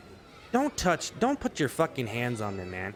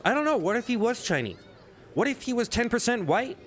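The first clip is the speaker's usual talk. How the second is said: exasperated; 9 semitones higher than usual. Real, not acted. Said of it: "mock exasperation".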